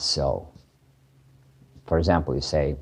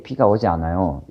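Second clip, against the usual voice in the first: quick, flat and certain, no softening; a blunt Korean statement with no hedge; much faster than usual. Shown as a demonstration. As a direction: state it bluntly as plain fact. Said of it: "You don't say it like that".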